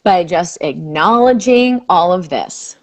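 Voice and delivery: soothing tapping script; guided tapping. Acted. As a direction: lead the phrase gently for her to repeat.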